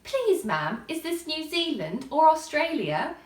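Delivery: loud, high and prim; polite little girl. A narrator's reading. Alice asking a stranger for the country, prim and polite. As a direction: ask it like a curtsying schoolgirl. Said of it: "tried to curtsy as she spoke".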